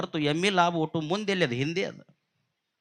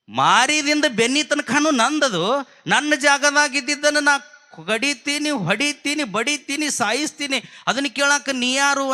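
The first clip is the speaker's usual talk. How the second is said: angry retort; 4 semitones higher than usual. Acted. Younger brother's angry retort.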